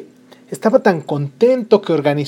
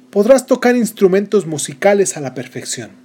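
higher, bright blessing; fairy godmother; 5 semitones higher, 4 dB louder than usual. Acted. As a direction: bestow the gift like a spell. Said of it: "La sexta". (hada madrina concediendo un don)

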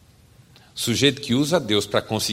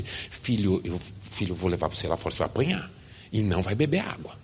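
lower, softer menacing mother; mother's quiet threat; 3 semitones lower, 6 dB quieter than usual. Acted. Mother threatening her son in church, low and soft. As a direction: threaten him under your breath.

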